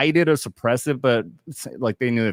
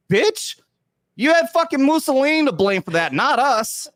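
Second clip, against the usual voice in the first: put-on Italian accent; 12 semitones higher than usual. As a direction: ham up a bad Italian accent. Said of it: "I could not do a fucking Italian accent".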